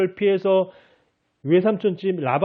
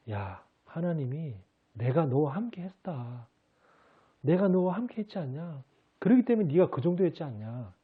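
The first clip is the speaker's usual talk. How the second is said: inner voice of God; 6 dB quieter than usual. Retold or imitated. God answering the believer in his heart, soft and gentle. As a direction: let it come as a quiet thought. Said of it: "마음속에 그런 생각이 들더래요".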